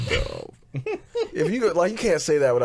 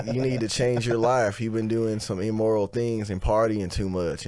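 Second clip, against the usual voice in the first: pastor voice. Retold or imitated. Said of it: "I play this character named Pastor Bill".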